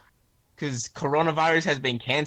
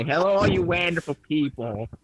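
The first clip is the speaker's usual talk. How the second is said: imitating Wah's intro; 4 semitones higher than usual. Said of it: "his intro".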